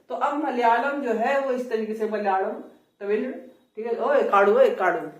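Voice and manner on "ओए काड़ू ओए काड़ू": louder call "ओए काड़ू" with retroflex flap. Retold or imitated. Teacher repeating the southern-style call. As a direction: call to Kadu, playful. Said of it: "इस तरीके से हो गया है".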